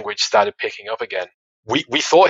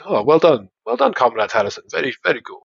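Russian colleague; 4 semitones higher than usual. Retold or imitated. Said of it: "he would say things like".

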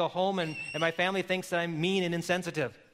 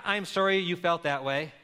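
bad apology. Shown as a demonstration.

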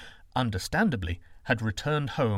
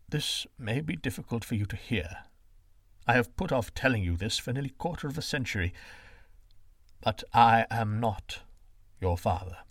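a hint of a grave father. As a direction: break it gently, slowing on not. Father confesses adoption.

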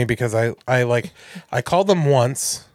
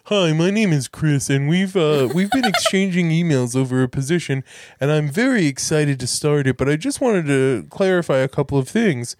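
thinly faked polite job applicant; pranking the scammer, badly faked voice; poorly disguised voice. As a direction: lightly put on someone else's voice. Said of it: "disguised my voice poorly".

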